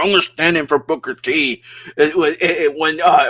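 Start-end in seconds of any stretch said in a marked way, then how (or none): 0.0-1.6 attempted Welsh accent, slightly raised; half-hearted Welsh accent impression; bad Welsh accent. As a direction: imitate a Welsh commentator, badly. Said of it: "I can't do a Welsh accent".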